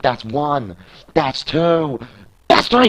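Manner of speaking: von normal zum hohen, lauten Schrei beim Auszählen; zähl den Pin immer höher und lauter, bis es explodiert; steigernder Ringzähler. Acted. Counting the pinfall live.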